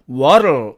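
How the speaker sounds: "what'll" meant as where'll, said "warl"; contracted where'll. Shown as a demonstration. Teacher giving the alternative form, contracted. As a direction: say "what'll" as one reduced syllable "warl". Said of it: "또는".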